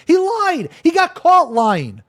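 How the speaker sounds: high, loud accusation; outraged. Real, not acted. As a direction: nail him with it. Denouncing the accuser.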